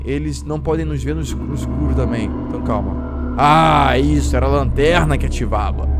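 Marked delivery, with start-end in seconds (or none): 3.4-5.9 loud, upbeat rush of praise; thrilled it finally worked; excited relief. Real, not acted. Gamer praising the mod after solving it, excited relief. Figured out the lantern trick.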